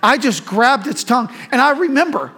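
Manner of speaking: loud, high, laughing through the memory; giggly high-pitched retelling; laughing embarrassment. Real, not acted. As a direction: laugh at your own silliness as you tell it. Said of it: "I don't know why".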